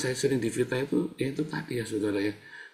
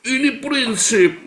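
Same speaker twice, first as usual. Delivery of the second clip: high, loud and slow, each word driven home; preacher pounding the principle; emphatic declaration; 12 semitones higher, 7 dB louder, much slower than usual. Real, not acted. Preacher stressing principle to congregation, loud and slow.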